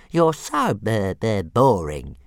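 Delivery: slow, loud, stuttering dragon sulk; sulky little dragon. Acted. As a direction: grumble like a bored sulking pet. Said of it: "he said sulkily".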